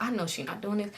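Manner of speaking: hushed aside to yourself; muttered thought. Retold or imitated. Glancing over at Kay in disbelief, muttering to herself.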